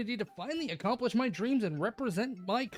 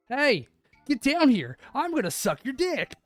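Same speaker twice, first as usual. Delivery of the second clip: higher call from outside; familiar voice; 4 semitones higher, 5 dB louder than usual. Acted. Friend hollering up to the narrator from outside, teasing call. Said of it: "a familiar voice resounded".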